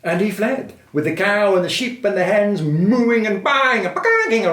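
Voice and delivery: high, loud storytelling with animal noises; excited narration. A narrator's reading. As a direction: act the noises inside the chase. Narrating the noisy chase.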